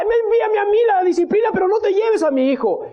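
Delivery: high, anguished pleading; acted desperate prayer. Preacher as David praying for his sick son, desperate plea. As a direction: plead at full pitch, near crying. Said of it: "Orando, diciendo".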